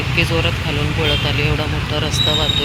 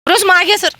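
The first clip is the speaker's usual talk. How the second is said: very high, loud yell at a dog; real shouted command; 8 dB louder than usual. Real, not acted. Feeder ordering a pushy dog back in rain, shouted command.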